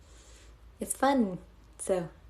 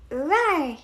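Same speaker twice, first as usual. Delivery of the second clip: mock roar; 7 semitones higher, 4 dB louder than usual. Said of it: "I don't know how to roar".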